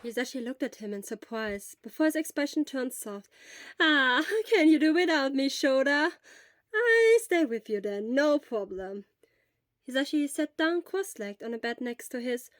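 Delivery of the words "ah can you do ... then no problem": a hint of a concerned friend, a bit louder and quicker; quick, eager offer of help; lightly voiced worried friend. Hisashi offers to fetch medicine for sick Shura, eager and caring.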